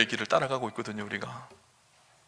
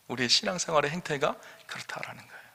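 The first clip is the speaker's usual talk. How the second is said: whisper; 10 dB quieter than usual. Real, not acted. Preacher's hushed point.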